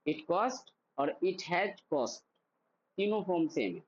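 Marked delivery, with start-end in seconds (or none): 0.1-2.2 slow drill. Shown as a demonstration. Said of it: "मेरे साथ ये तीनों फॉर्म".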